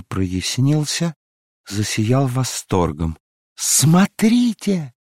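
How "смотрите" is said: much higher, slow, ecstatic cry; triumphant shout. Acted. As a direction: call out in rapture. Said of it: "закричала она торжествующе". (торжествующий возглас)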